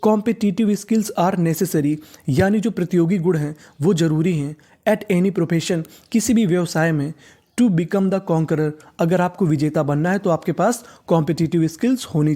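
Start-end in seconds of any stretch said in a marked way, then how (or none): 0.0-1.9 Competitive skills are necessary read very slowly, word by word; slow sentence reading. Shown as a demonstration. Teacher reading the sentence to students, very slow. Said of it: "अब पूरा sentence देख लेते हैं". 7.6-8.7 Competitive skills are necessary read very slowly, word by word; slow sentence reading. Shown as a demonstration. Teacher reading the sentence to students, very slow. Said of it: "अब पूरा sentence देख लेते हैं".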